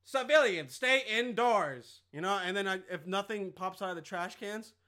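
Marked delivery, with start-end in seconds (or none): 0.0-2.0 slow, louder announcement to the street; a lightly voiced patrol robot giving orders; robot cop command. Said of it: "and I'm like".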